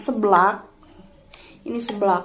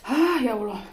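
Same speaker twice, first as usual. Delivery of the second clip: sudden exclaim from the spicy heat; mouth burning from spicy food; 3 semitones higher than usual. Real, not acted. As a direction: cry out as the chilli hits. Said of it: "Pedes banget".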